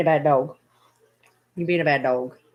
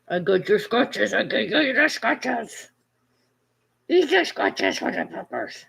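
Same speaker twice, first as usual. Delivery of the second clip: put-on silly pet baby talk; 3 semitones higher than usual. Owner giving the puppers scratches, silly baby talk.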